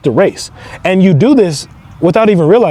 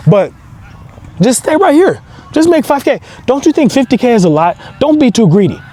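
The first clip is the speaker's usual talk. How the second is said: higher, pleading voice of the scared self; fearful inner self; 5 semitones higher than usual. Retold or imitated. The scared version of you begging you to stay, higher and pleading. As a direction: coax yourself to stay small, anxious and higher. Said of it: "the version of you that's like".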